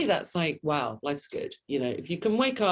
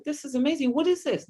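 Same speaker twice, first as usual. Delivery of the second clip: high, louder, delighted discovery; retold excitement; 11 semitones higher, 3 dB louder than usual. Guest recalling first tasting kale in France, thrilled. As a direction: gush over a first taste of something new. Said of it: "And I was like".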